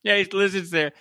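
put-on slow, dubious Cleveland caller accent; mock Cleveland accent. Caller complains to sports radio about lizards, in a mock Cleveland accent. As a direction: drag it out in a badly faked Cleveland accent. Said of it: "Maybe that was a lizard accent".

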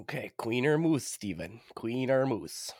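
unvoiced, conspiratorial coin call; whisper. Real, not acted. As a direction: hush it like a secret game.

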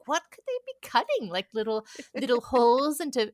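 high, incredulous questioning; baffled, high-pitched musing; puzzled wonder. Retold or imitated. Acting out her earlier puzzled wonder.

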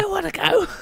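very high breathy take, attempting sultry; breathy sexy voice. Shown as a demonstration. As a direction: try a husky sexy phone voice, hammed up. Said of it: "Do a bit more of a breathy, kind of sexy".

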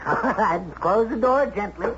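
laughing through the words, pitched high; high, laughing send-off; amused laughing. Acted. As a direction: chuckle as you dismiss an angry outburst. Amused at the secretary's threat.

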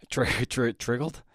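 false starts on "tri-", then an unsure "triggered?"; tongue-tied stutter into "triggered?"; stumbling over word. Real, not acted. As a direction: trip on "tri-" twice, then ask "triggered?" with an L creeping in. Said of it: "I'm stumbling over words".

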